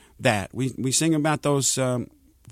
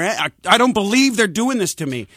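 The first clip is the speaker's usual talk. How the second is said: exasperated; 5 semitones higher than usual. Retold or imitated. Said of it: "which I say that all the time".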